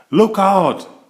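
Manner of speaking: high, loud warning call. A narrator's reading. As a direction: shout a warning to the team. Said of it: "called Lizzie".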